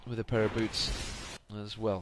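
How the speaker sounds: talking through a yawn; words stretched by a yawn. Real, not acted. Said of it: "Excuse me while I yawn there".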